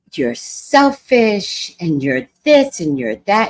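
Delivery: imitating an angry passenger; mock tantrum. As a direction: ham up the stranger's rant. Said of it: "she went on a tantrum".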